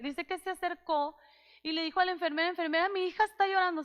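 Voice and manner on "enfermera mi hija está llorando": quick, pressing plea to the nurse; urgent father. Retold or imitated. Father urging the nurse, fast and pressing. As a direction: hurry the words out, worried.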